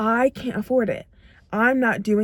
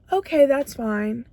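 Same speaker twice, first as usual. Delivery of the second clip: resigned acceptance; 2 semitones higher than usual. Shown as a demonstration. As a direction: shrug it off and settle for it. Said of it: "So you're telling yourself".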